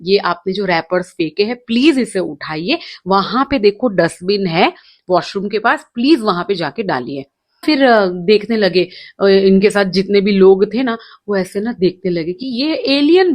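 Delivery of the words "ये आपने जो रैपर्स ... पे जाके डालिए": sweetly coaxing. Retold or imitated. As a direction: gently ask the kid to pick up the wrappers. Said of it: "मैंने उस बच्चों को बड़े प्यार से बोला". (बच्चे से प्यार से, धीमी आवाज़ में)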